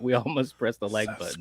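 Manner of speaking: unvoiced spooky whisper. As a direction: breathe it like a ghost. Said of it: "If we whisper it".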